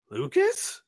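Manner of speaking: high, startled call of a name; robot hears a voice and calls out in surprise; startled question. Acted. Surprised robot calling out to Lucas.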